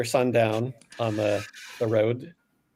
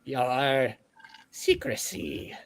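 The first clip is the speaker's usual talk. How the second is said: high, wary creature voice, hissing secrecy, then quicker; suspicious orb; 9 semitones higher than usual. Acted. Gregory the orb warning the party, high and wary.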